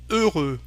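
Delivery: heureux ending on a tight rounded vowel, falling; closed French eu. Shown as a demonstration. Teacher contrasting two sounds for learners, closed French eu. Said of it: "Can you hear the difference?".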